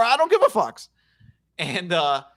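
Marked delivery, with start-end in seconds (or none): 0.0-0.9 high, loud retold yell; mock screaming. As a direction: imitate the belligerent passenger yelling. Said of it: "She's screaming?".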